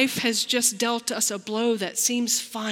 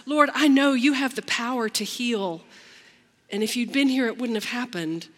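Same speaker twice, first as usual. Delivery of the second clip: earnest, trusting plea, louder; faithful plea; 3 semitones higher, 4 dB louder than usual. Shown as a demonstration. Preacher voicing Martha's faith to Jesus, earnest and trusting. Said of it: "I hear faith".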